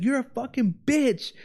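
high, slow mocking insult; mock angry man. Imitating the neighbor guy repeating the insult, slow and mocking. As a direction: drag out the insult like a parody.

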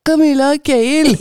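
extreme neck stretch. Shown as a demonstration. Coach demonstrating the exercise to the group, extreme neck-stretched voice. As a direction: push the chin way out and squeeze the name out. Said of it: "nå var jeg veldig ekstrem da".

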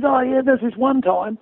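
slow, lightly put-on American Southern accent. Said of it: "I can't do the American accent, but I'm gonna try anyway".

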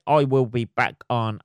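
slow put-on announcer read; odd announcer voice. Real, not acted. Podcast host signing off, slow put-on announcer voice. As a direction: start the sign-off like a stiff host. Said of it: "I don't know why I'm talking like that".

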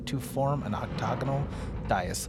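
measured scene-setting read; read-aloud narration. Acted. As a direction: read the room description evenly. GM reads boxed room text.

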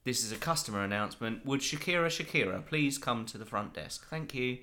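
supermarket tannoy announcement; flat public address call; flat echoey pa page. Pretend. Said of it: "if they ever have to make an announcement".

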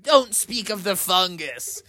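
high, pained, half-laughing groan; grossed out wail; disgusted mother. Acted. Mother Bear begs the family not to mention fungus, high and pained. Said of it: "And Mother was like".

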